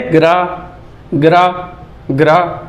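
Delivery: "ग्रा" with g and r run together; "ग्रा" as a single blended sound, repeated separately; blended consonants. Shown as a demonstration. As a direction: say "ग्रा" as one syllable, no vowel between g and r. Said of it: "बीच में कोई vowel sound नहीं".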